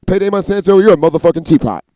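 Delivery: high, loud taunting mock insult; imitated voice. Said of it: "it would say".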